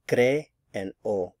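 "cre and o" as two separate beats; syllable by syllable. Shown as a demonstration. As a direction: break it apart for learners, "cre", then "o". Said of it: "Notice there's two syllables".

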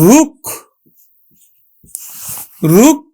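teacher drilling রুক; sounding out a syllable. Shown as a demonstration. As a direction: call out রুক for the class. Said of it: "উচ্চারণ করব কিন্তু".

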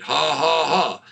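low, measured mock laugh; deliberate laugh. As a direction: re-enact a forced low laugh. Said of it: "I'm just laughing".

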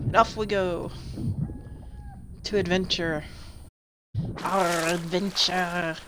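hammy pirate, stretching the words. Acted. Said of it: "My pirate voice kinda sucks".

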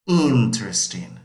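slow, clear model for the class; model for repeating. Shown as a demonstration. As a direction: say Interesting slowly for students to copy. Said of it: "So repeat".

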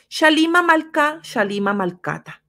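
"Shalima Malka, Shalima Malkata" spoken carefully, each syllable clear, stress on "shalima"; vocalization demo. Shown as a demonstration. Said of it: "sería una vocalización de esta frase". (pronunciación cuidadosa de "Shalima Malkata")

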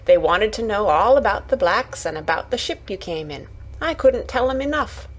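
lightly voiced Yorkshire lass, chattering on; a hint of excited country gossip; eager Yorkshire Martha. Martha telling Mary what the family asked, lightly eager Yorkshire voice.

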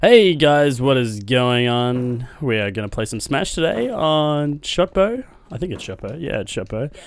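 put-on lightly done Australian accent; a hint of an Australian accent; Rob the Rock Lobster. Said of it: "I'm going to sound like Rob the Rock Lobster".

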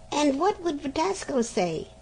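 mother's voice. Acted.

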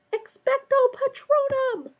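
high, loud, drawn-out yell; yelled incantation. A narrator's reading. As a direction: yell the spell slowly with full force. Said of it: "Harry yelled".

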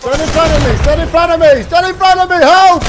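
rising panicked calls for help; frantic, climbing pleas; panicked shouting. Real, not acted. Panicking under fire.

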